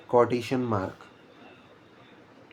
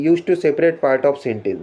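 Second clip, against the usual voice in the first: slow dictation; much slower than usual. Shown as a demonstration. Reading a definition off the slide.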